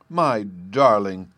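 slow, loud, doting cry; mother's cry. Acted. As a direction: wail it out over her boy. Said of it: "cried his mother".

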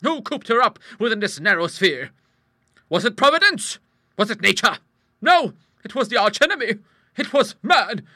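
loud, high oratory; impassioned rhetorical outburst; indignant tirade. Acted. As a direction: declaim like a fiery campaigner. Hostess's indignant speech after cry.

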